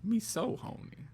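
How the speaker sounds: high, slow squeaky hook; high squeaky echo. Retold or imitated. Echoing the song hook, higher.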